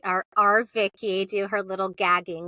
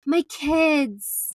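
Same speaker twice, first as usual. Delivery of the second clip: choked-up husband; 6 semitones higher, 4 dB louder than usual. Retold or imitated. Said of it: "he goes".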